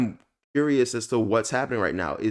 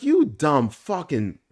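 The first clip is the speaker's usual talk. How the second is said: half-voiced cussing; 4 semitones higher, slower than usual. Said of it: "I wanted to cuss her out".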